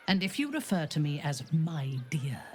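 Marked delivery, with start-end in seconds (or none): 1.5-2.4 scornful whispered mimicry of "my dear"; mocking whisper. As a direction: whisper "my dear" with a sneer, breathy and unvoiced. Mocking the other's pet name.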